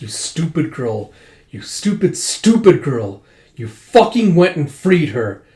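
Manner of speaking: furious father berating the daughter who betrayed him; enraged father. Retold or imitated. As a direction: spit out stupid girl in disbelieving rage. Father raging at freed daughter.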